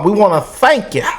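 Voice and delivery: lightly mimicked Kamala Harris accent; a hint of Kamala's way of speaking. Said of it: "What's that Kamala accent".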